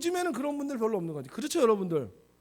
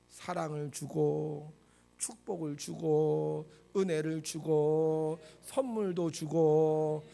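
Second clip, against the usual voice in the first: very slow, lower, drawn-out listing; solemn preacher's litany; 5 semitones lower, much slower than usual. Acted. Preacher telling congregation what church gives, slow litany. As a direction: stretch each phrase into a measured litany.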